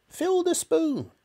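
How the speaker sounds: high, slow order, FILL hit; bossy grandma. Acted. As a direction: command it like a tyrant granny.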